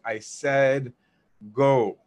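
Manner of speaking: firm dismissal with a punched final word; authoritative order. Retold or imitated. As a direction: imitate an annoyed elder, pause before the last word. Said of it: "very authoritatively".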